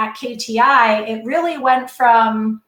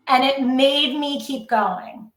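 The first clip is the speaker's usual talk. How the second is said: getting emotional. Real, not acted. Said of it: "now I'm gonna get emotional".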